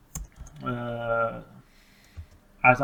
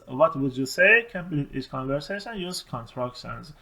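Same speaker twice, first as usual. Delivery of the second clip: slow reading; much slower than usual. Shown as a demonstration. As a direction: read the task out slowly. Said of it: "reads the instructions aloud". (خواندن آهسته و آرام دستورالعمل)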